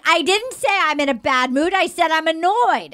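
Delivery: lightly voiced prickly girlfriend; mock-huffy correction, understated; imitating her. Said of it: "Like that".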